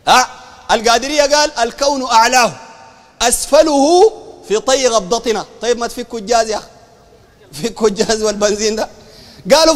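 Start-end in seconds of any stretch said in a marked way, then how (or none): 1.6-5.5 slow, drawn-out recital of verse; verse recitation. Retold or imitated. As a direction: stretch the long vowels like chanted poetry. Quoting Sufi verse to ridicule it.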